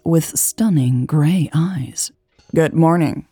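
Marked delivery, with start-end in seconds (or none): 2.6-3.3 nasal, clipped greeting. Acted. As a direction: say it through the nose. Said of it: "The nasal voice".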